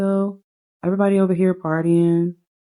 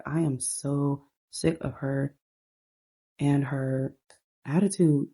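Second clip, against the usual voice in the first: fed-up complaint; 4 dB quieter than usual. Acted. Voicing a fed-up sister.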